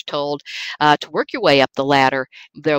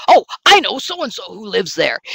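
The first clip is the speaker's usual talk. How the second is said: light, casual take on a well-connected professor; Doctor J imitation; 3 semitones higher than usual. Lecturer imitating a colleague to the class, lightly voiced. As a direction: toss off a breezy name-drop. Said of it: "I could do my Doctor J imitation".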